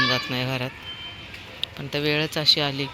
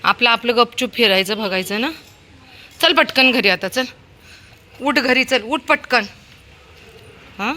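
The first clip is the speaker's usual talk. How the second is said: loud, high commands to get up and come; calling dog home; 7 semitones higher, 5 dB louder than usual. Real, not acted. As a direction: order the dog home, getting impatient. Owner orders dog home.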